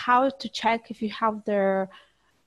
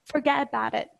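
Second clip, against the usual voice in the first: lightly imitated New York accent, a little higher; 4 semitones higher, faster than usual. Student quoting a New York catchphrase, mock New York accent. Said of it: "in New York, they say".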